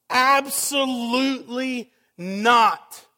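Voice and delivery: slow, emphatic, stretched-out declaration; mock scream. Paul answering his audience, a mild slow mock scream. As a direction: hammer each word down slowly. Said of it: "Paul screams".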